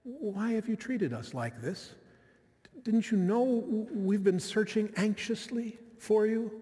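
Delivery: soft, gentle mother's question. Retold or imitated. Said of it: "Or was it more gentle?".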